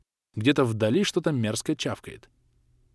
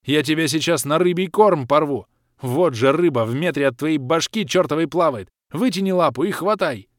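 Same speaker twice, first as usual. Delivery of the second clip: angry; 4 semitones higher, 5 dB louder than usual. Acted. Hero berating creature.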